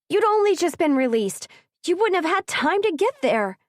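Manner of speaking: high, loud incredulous question. A narrator's reading. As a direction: push back in disbelief. Ridley incredulous.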